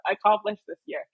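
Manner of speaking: high, giddy rush of words; retold excitement. Telling herself to close the letter, excited. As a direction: excitedly talk yourself out of peeking. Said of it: "I was so excited".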